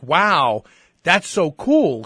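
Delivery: slow, drawn-out admiring wow; mock admiration. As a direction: imitate an impressed reaction, stretching the words. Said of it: "it wasn't like she was saying it like".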